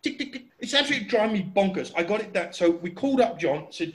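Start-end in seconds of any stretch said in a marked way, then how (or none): 0.0-0.4 soft, high-pitched mechanical ticking; imitated engine ticking. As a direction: mimic an engine's quiet tick. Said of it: "and it's going".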